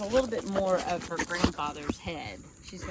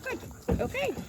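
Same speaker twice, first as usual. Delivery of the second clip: high dog praise; 4 dB louder, slower than usual. Real, not acted.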